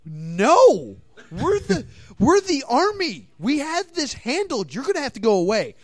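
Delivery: high-pitched mock army official; hammed-up government brush-off; mock authority refusal. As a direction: turn the hero away with comic indignation. Acts the government refusing the hero.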